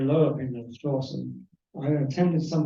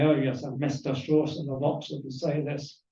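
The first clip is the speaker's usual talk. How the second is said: lightly imitated Polish-accented lecturer; a hint of a badly faked Polish accent; poor Polish accent. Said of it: "That was a poor Polish accent".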